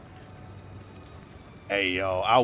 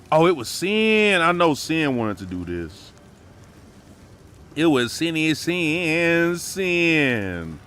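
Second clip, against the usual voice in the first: delighted recognition; 5 semitones higher, 4 dB louder, slower than usual. Real, not acted. Recognizing the raider.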